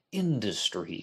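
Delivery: INDUSTRY set apart after a pointed pause; pause, then lean on the word INDUSTRY; deliberate, knowing emphasis on INDUSTRY. Real, not acted. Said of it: "emphasis on the word industry".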